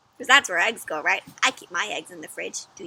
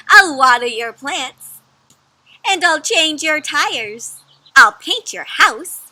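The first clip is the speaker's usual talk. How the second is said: louder, slower proud egg listing good deeds; eager egg character; 5 semitones higher, 12 dB louder, slower than usual. Acted. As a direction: proudly list each good deed.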